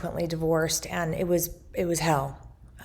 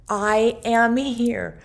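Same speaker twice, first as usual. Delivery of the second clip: slow, louder, emphatic declaration; pounding insistence; 4 semitones higher, 4 dB louder, much slower than usual. Retold or imitated. Mother's presence pounding through, slow emphatic declaration. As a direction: beat each word out like a heartbeat. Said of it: "like, pounding".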